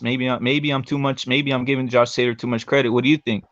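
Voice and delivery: glitchy jumping pitch; choppy robotic stream audio. Real, not acted. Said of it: "You sound like a robot now".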